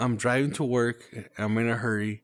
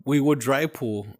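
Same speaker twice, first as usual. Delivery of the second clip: slightly slurred tipsy speech. Real, not acted. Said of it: "I'm drunk".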